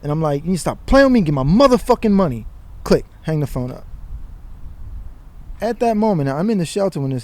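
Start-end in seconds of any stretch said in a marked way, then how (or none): 0.4-2.5 angry voicemail. Retold or imitated. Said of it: "I say all this".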